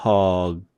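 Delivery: mug spoken as in American English, open short vowel; English demo word. Shown as a demonstration. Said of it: "이렇게 소리 내면 되죠".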